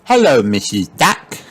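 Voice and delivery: put-on mildly excited high child voice; crying out. A narrator's reading. Peppa greeting the duck, crying out. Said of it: "cries Peppa".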